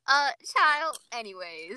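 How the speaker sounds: a lightly put-on drag queen catchphrase; Jada Essence Hall. Friend quotes a catchphrase, lightly imitated. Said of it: "You sound like Jada Essence Hall".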